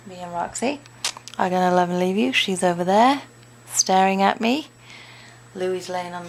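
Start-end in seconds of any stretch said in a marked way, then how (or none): 0.1-2.3 louder sing-song sign-off. Real, not acted. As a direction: call the goodbye out loud.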